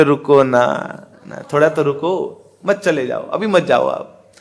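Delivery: mildly tender, coaxing request to stay; lover's plea. Acted. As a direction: plead softly, as an acted lover. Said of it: "जो प्रेमी व्यक्ति हैं". (प्रेमी जैसी हल्की मनुहार)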